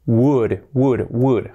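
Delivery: "would" starting on an open W, no L; correct would. Shown as a demonstration. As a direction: drill "would" the right way, silent L. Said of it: "Así sería". ("would" bien pronunciado, sin la L)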